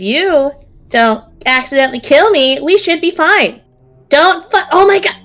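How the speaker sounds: the halfling narrowly dodging the axe; startled halfling. Acted. Halfling nearly hit by axe.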